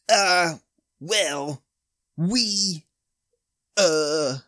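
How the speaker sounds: high, halting nervous stammer. A narrator's reading. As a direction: stumble over every word. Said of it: "Jake stammers".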